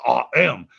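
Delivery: "I am" with weight on "am"; stress on AM. Shown as a demonstration. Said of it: "a little more of an emphasis, like".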